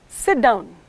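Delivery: falling tune on "Sit down.". Shown as a demonstration. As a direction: say "Sit down." so the pitch drops. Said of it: "this is called the falling tone".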